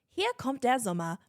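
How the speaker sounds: recalled radio ad read; German ad read. Shown as a demonstration. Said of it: "All I remember from my one ad read".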